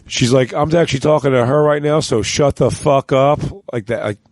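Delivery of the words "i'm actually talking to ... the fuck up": dismissive. Retold or imitated. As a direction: wave him away with scorn. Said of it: "like, the dismissive".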